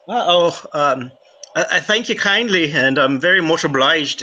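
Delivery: light Irish thanks; a grateful Irishman, light brogue; Irish accent. Acted. Irishman thanking the scholar, light Irish accent. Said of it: "doing Irish".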